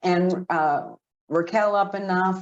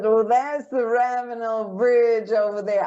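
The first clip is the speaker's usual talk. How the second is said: higher-pitched imitation Southern woman; Southern accent; 4 semitones higher than usual. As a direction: mimic a friendly Southern local's accent. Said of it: "have you talked in a Southern accent".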